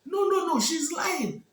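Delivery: high, loud furious protest; angry shouting. Acted. The two jealous women shouting at the king that Olama lies. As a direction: yell it in outrage, refusing to believe. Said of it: "The two women were shouting".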